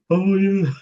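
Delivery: high, surprised "oh yeah"; like it just clicked; sudden realisation. Retold or imitated. Brother realising, retold quote.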